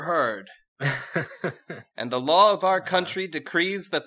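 high, loud mock-regal princess voice; haughty princess. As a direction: play the rebellious princess grandly. Princess decrees marriage law.

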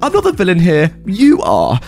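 high, furious entitled rant; angry outburst. Acted. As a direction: erupt like a volcano, shrieking. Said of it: "Karen went out of control".

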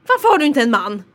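mimicked old-lady interrogation; nosy old lady. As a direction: demand it like a prying old lady. Imitating nosy old lady's question.

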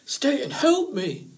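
high, slow cry for help; desperate plea. A narrator's reading. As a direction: beg the fox, drawing it out. Rabbit pleads for help.

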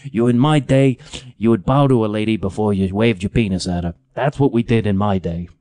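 lightly voiced grumpy old man; a hint of crotchety old-man scolding; old curmudgeon. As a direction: grumble like a mock old-timer. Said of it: "am I becoming that guy".

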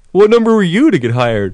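put-on high, whiny bratty old man; petulant brat. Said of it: "this petulant brat".

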